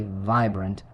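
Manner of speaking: "vibrant" stressed on its first syllable. Shown as a demonstration. Teacher models "vibrant" for learners to repeat, stressed on the first syllable. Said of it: "with the stress on the first syllable".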